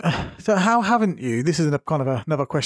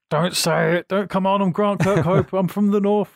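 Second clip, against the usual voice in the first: imagined stubborn northerner, slightly raised pitch; mock furious; 4 semitones higher than usual. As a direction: play-act mild indignation on someone's behalf. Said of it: "I can just imagine you just furious".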